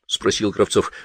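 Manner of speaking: usual speaking voice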